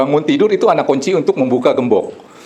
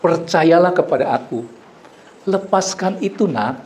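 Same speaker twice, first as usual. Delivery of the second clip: gentle divine voice; 2 semitones higher than usual. Retold or imitated. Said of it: "Ada suara selalu bilang".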